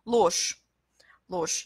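Ложь ending in a voiceless sh; devoiced ending. Shown as a demonstration. Teacher giving a further example, devoiced ending. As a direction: say "Ложь" as losh. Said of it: "je qu'on prononce comme ch".

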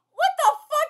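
high, loud exclamation of disbelief; real cringing outburst; shocked outburst. Real, not acted. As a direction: blurt it out, appalled. Reacting to a cringe line.

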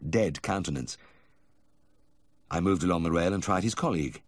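plain reading voice

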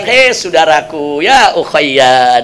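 slow, low, tender address to a brother; gentle and smiling. Retold or imitated. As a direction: soothe him like a kind elder. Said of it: "Akhirnya Khalifahnya tersenyum".

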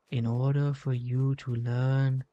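lightly voiced sage giving advice, unhurried; a hint of an old uncle teaching his nephew; wise mentor voice. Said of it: "Why am I talking like that?".

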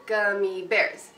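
"Gummy bears" slow with quick gummy, long bears; rhythm example. Shown as a demonstration. Teacher modeling two eighths and a quarter, slow. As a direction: say "Gummy" fast and hold "bears". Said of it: "two eighth notes and then a quarter note".

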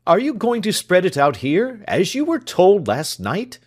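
high, loud exasperated scolding; doctor berating his man before guests. Acted. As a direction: scold the servant for his delay.

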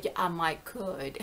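Southern folk idiom, lightly imitated; Southern accent. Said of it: "white people say that here in the South".

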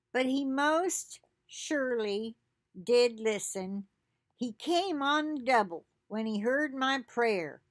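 slow and deliberate, savouring each phrase; slow scripture reading. Acted. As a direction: read the verse slowly, letting it land. Reads scripture aloud.

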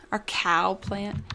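slow, stretched vowels on "cow plant"; odd pronunciation. Real, not acted. Gamer repeating her own question about the cow plant, oddly drawn out. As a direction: draw out "Our cow plant" slowly. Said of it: "The way I said that".

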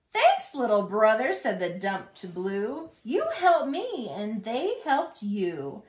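lively, rhythmic picture-book narration; reading to children. A narrator's reading. Reader shares a truck story with little Longhorns, lively storytelling. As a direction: read the rhyme out clearly for little listeners.

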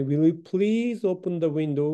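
slow model sentence. Shown as a demonstration. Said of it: "will you pleaseという形だとより丁寧".

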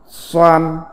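"xoan" said as Mandarin suān, level tone; Mandarin pronunciation. Shown as a demonstration. Teacher reads out a character's Chinese reading, "xoan" as Mandarin suān. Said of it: "Phiên âm tiếng Trung đọc là".

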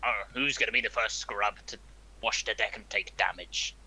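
pirate talk. Pretend. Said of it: "We're gonna be doing a lot of pirate talk".

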